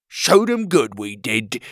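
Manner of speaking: loud, gleeful boast; proud sidekick. Acted. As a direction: crow it proudly. Petey voiced, boasting.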